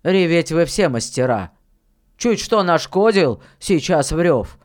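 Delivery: lightly voiced miller, firm and emphatic; mildly scolding elder; stern miller, grumbling. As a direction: lay out the trouble to a boy, forcefully.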